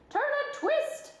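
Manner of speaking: high, slow goose honk. A narrator's reading. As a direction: honk the words slowly. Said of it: "honked the goose".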